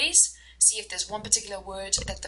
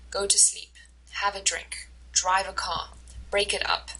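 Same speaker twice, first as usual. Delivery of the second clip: teacher's stress-pattern demo, outer beats strong as in "Try again"; strong-weak-strong stress. Shown as a demonstration. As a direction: stress first and last syllables, middle one weak, as in "Try again". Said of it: "strong stress, uh, weak stress, strong stress".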